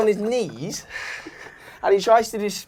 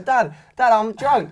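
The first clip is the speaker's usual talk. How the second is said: put-on drunk whine; 5 semitones higher, slower than usual. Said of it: "I was going".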